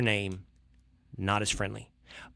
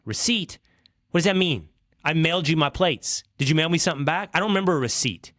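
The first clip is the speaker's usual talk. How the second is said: mildly indignant caller; a little curt; 3 semitones higher than usual. Retold or imitated. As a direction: retort with rising impatience. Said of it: "my tone was getting perhaps a little curt".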